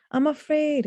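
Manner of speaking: high little scared voice; frightened child. Acted. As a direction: pipe up like an anxious child. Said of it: "back to the crying child".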